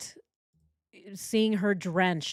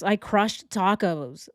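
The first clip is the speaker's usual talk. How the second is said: slow, stretched mock bro line; mocking, drawn-out bro brag; Chris; slower than usual. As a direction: imitate his bro talk, dragging the words. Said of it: "Who talks like this?".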